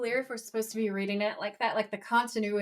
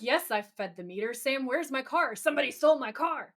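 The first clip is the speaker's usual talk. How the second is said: mock panic, climbing higher and quicker; starting to panic; 3 semitones higher than usual. Dean to Sam about the stolen car, mock panic building. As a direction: act out rising alarm, pitch going up by the end. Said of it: "Dean's starting to panic visibly".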